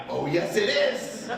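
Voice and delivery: slow, high, knowing comeback; father's slow smug comeback to his son; smug retort. Retold or imitated. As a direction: answer him smugly and slowly. Dad answers son.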